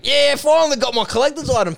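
mock excitement of a happy customer; delighted collector. Imagined buyer getting the collector's item, mock delighted.

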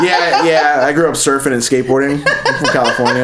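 lightly voiced California surfer kid; a hint of laughing skater dude. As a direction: play up the California kid, amused. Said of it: "weird Caucasian California kid voice".

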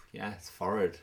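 forehead said as FORRID, silent h; old-fashioned forehead. Shown as a demonstration. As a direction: rhyme "forehead" with "horrid". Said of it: "forehead feels quite old".

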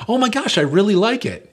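high, loud overdone thanks; forced delight. Retold or imitated. Opening a gift in front of the giver, forced high delight. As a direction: oversell the gift. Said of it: "I open it like".

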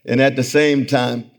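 ordinary talk

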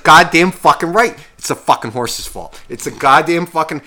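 worked-up, cursing retold outburst; mock breakdown. Viewer breaking down at the TV, retold angry outburst. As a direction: start loud and high, exasperated. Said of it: "I started breaking down".

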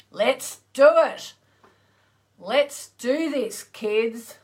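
loud, high pep-talk cheer; rallying cheer. Real, not acted. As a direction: fire up the crowd. Rallying the audience.

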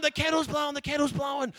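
put-on whisper-tease it like excited children; excited kids. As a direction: kids hissing the joke in church. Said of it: "we're going".

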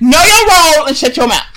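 The Rock. Retold or imitated. Host silencing his friends, quick mock wrestler shout. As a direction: fire off a mock wrestling put-down. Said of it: "That's what The Rock said".

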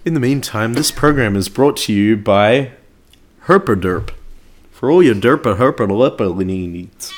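deadpan fake ad announcer; mock sponsor read. Filling time while a co-host searches, mock sponsor read.

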